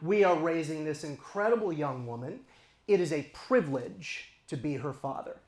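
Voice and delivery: tender and grateful; sincere parents. Retold or imitated. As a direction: parents marvelling at their daughter. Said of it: "we say".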